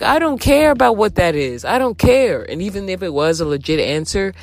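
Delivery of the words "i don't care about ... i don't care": high, sharp mock yell; yelling at the boyfriend on the phone, pitched high; retold angry yelling. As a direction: tell him off, voice pitched up. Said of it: "screaming, angry".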